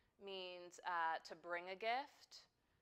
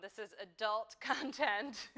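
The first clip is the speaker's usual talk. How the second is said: loud, playful mock alarm about kids watching; mock warning; 4 semitones higher, 14 dB louder than usual. Joking warning to livestream viewers.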